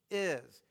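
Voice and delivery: "is" said alone with firm emphasis; emphatic IS. Shown as a demonstration. Preacher pointing out the emphasis to the congregation, stressed "is". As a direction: land firmly on a lone "is". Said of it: "notice the emphasis".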